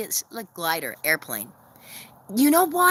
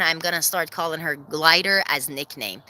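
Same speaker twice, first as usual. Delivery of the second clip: normal talking voice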